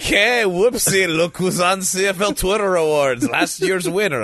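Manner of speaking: stretched-out "whoopsie", then a sing-song put-on voice; mock innocent announcer. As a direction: feign innocent surprise at your own defection. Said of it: "It would be like".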